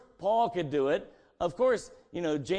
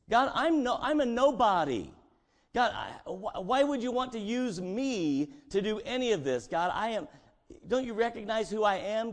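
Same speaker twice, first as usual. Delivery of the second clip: higher, louder, protesting nobody; pleading Moses; 6 semitones higher, 3 dB louder than usual. Acted. Moses protesting to God, higher and pleading. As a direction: beg God to pick someone else.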